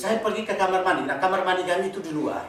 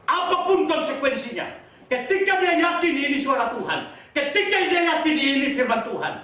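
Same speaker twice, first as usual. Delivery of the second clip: high, driving sermon delivery; forceful preaching; 11 semitones higher, 5 dB louder than usual. Real, not acted. Preacher teaching believers to obey God, forceful preaching. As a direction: proclaim it to the congregation with conviction.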